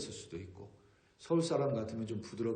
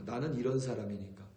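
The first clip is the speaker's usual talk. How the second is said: self-justifying quote; 2 semitones higher, 6 dB louder than usual. Retold or imitated. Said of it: "어떤 사람은 이렇게 이야기합니다".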